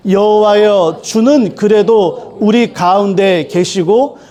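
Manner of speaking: slow, measured recital, phrase by phrase; scripture reading. Acted. Preacher leads congregation through the Bible text, slow solemn recitation. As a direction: read the verse aloud in an even, deliberate cadence.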